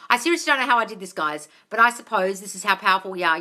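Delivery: fast, fluent reread. Real, not acted. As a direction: rattle it off correctly. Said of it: "but am I supposed".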